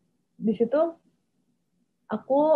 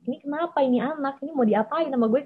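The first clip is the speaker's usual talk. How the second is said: higher, quick, at a loss; bewildered family; 5 semitones higher, faster than usual. Retold or imitated. Family at a loss over the crying child, bewildered. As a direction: imitate relatives who don't know what to do. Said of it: "keluarga aku tuh nggak tahu mau gimana".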